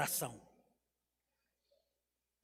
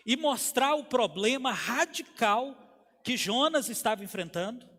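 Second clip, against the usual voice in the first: emphatic preaching, slightly raised; pregação enérgica; 3 semitones higher, 4 dB louder than usual. Acted. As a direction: drive each phrase home to the congregation. (pregação com ênfase e voz firme)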